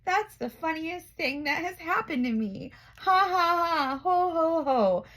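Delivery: high giggles building to hearty ha-has; giggling elephant. Acted. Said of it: "He began to giggle".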